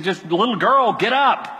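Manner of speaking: imitating a short, firm command; brisk commanding prayer; quick authoritative prayer. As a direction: order it with authority, rising in pitch at the end. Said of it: "quick, authoritative prayers".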